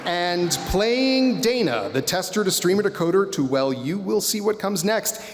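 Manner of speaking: pro wrestler announcer voice. Pretend. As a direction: yell the name like a main event. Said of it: "pro wrestler announcer voice".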